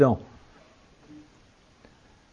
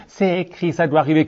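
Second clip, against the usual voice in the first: prissy mouth; 2 semitones higher than usual. Retold or imitated. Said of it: "la bouche en cul de poule".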